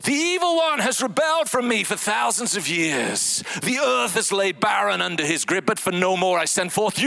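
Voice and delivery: high, booming fantasy proclamation; epic God voice. Pretend. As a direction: thunder it like a movie deity. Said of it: "how about this?".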